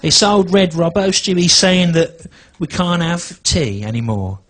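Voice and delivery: a hint of a granny up in arms; indignant nan. Comic's nan complaining to him, high indignant squawk. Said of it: "She goes".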